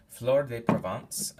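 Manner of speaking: slow, lightly put-on French accent on the candle name. Candle reviewer introducing the next scent in a slow, mock French accent. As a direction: drift into a playful French accent as you announce it. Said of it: "I'm not sure I'm not doing that in a French accent".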